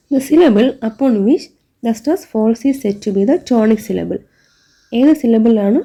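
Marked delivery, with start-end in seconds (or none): 0.1-4.2 reads the textbook definition word by word, very slowly; slow dictation reading. Shown as a demonstration. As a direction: dictate it slowly so the class can write it down.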